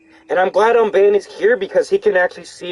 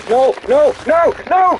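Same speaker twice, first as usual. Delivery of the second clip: high panicked no no; panicked shouting; 12 semitones higher, 4 dB louder, slower than usual. Real, not acted. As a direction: yell in panic as it attacks. Dogs attack in game.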